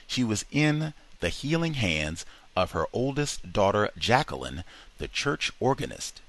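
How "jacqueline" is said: plain reading voice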